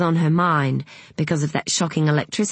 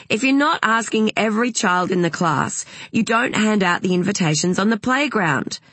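higher-pitched, insistent mother laying down a rule; emphatic, aggrieved insistence; indignant Madeline; 6 semitones higher than usual. Acted. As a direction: lecture indignantly, pitch lifted.

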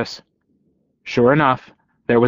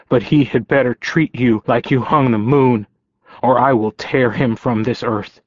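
voice cracking. Acted. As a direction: voice cracking with emotion. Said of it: "His voice cracked".

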